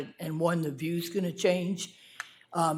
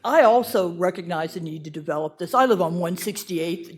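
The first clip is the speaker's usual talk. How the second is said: louder, projecting without a mic; 6 dB louder than usual. Real, not acted. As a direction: fill the room with your voice. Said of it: "I have a fairly loud voice".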